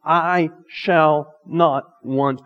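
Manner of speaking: slow, deliberate declaration; measured self-persuasion, each word held; telling your soul truth. Acted. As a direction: spell it out slowly, word by word, to convince yourself. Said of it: "To tell your soul the truth".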